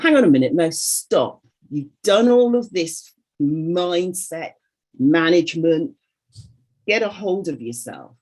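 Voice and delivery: stern self-talk. Retold or imitated. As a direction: retell pulling yourself up short, firmly. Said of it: "And I thought".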